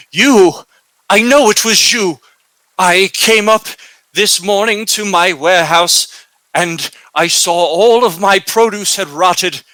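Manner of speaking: angry merchant yelling, settling into cold accusation; furious accusation. Acted. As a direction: hurl the blame at him, then press him hard. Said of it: "He's so angry".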